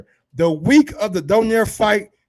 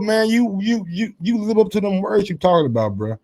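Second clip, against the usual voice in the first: ordinary delivery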